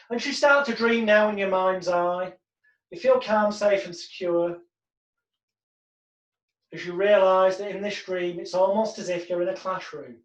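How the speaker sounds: calm hypnotic read; hypnotic script. Shown as a demonstration. Hypnotist leading the client into the dream, calm. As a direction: guide them gently into the dream.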